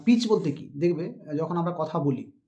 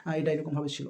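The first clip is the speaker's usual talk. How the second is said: louder, pushing to keep talking; insistent pleading; 3 dB louder than usual. Retold or imitated. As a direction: insist on finishing your point, sir. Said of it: "ওরকমটা বলতে যাবো না".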